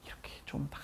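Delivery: whispered; whispering a hope. Real, not acted. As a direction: drop to a breath. Whispered wish.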